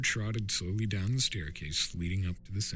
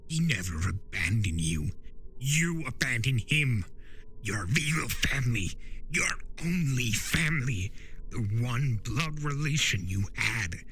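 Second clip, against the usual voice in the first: Discord, pressing hard; 4 semitones higher than usual. Acted. Discord confronts Turek.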